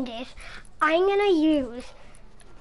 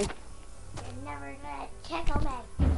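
silly put-on voice; 9 dB quieter, slower than usual. Teasing in-game.

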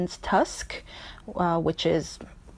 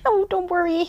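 cheerful ladybug; 2 semitones higher than usual. Acted. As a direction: reassure the elephant brightly. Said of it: "laughed again ... responded and said". (بابا کفشدوز با شادی و دلگرمی)

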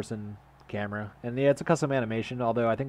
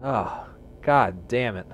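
drawn-out, very slow curse; slow drawn-out groan; 3 semitones higher, much slower than usual. Real, not acted. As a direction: stretch each word in dismay. After jump scare.

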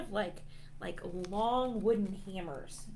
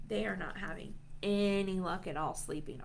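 ordinary delivery

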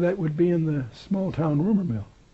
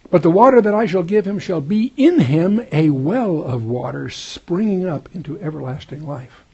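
louder, raised scripture proclamation; 3 semitones higher, 6 dB louder than usual. Acted. Preacher proclaims the living water promise, loud and raised. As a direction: ring it out to the room.

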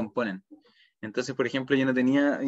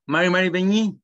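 loud greeting; 6 semitones higher, 6 dB louder than usual. Real, not acted. Teacher greets loudly in Mapudungun.

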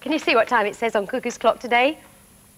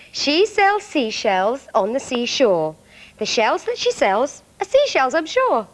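1 slow tongue twister; slower than usual. Shown as a demonstration. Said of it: "See if you can say it with me".

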